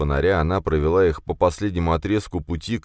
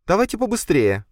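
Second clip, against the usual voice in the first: urgent; 14 semitones higher, 3 dB louder than usual. Acted. Urging them to hurry.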